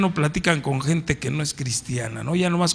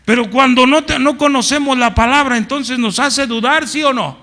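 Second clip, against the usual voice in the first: emphatic; 8 semitones higher, 6 dB louder than usual. Real, not acted. Preacher pressing the point.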